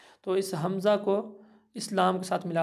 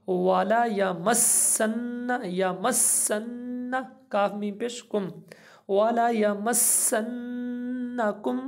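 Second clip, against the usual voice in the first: slow recitation; 3 semitones higher, much slower than usual. Shown as a demonstration. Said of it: "तो मिला के पढ़ें".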